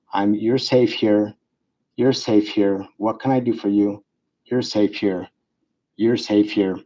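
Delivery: slow, low, soothing repeats; calm reassurance. Shown as a demonstration. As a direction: calmly reassure a patient, unhurried. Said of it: "Just repeat yourself".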